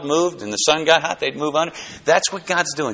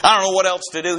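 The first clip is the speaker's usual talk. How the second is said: huffy Jonah; 3 semitones higher than usual. Retold or imitated. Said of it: "He's angry".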